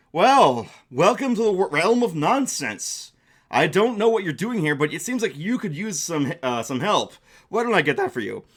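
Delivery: welcoming storybook creature, only slightly put on; a helpful accordion dragon offers aid, lightly voiced; lightly voiced friendly dragon.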